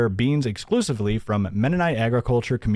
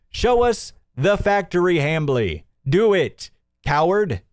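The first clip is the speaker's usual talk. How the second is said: taunting callout; 4 semitones higher than usual. Real, not acted. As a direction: call him out, daring him to show it. Taunting the owner to prove it.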